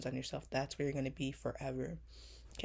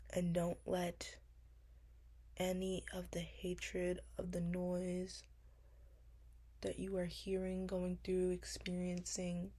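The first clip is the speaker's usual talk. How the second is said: tender reassurance; 3 semitones higher than usual. Retold or imitated. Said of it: "I'd be like".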